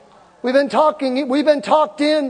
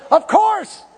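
triumphant reply; 7 semitones higher than usual. Retold or imitated. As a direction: crow it proudly to the nurse. Retold triumphant reply to nurse.

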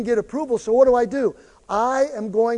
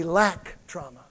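call for response; 4 semitones lower, slower than usual. Shown as a demonstration.

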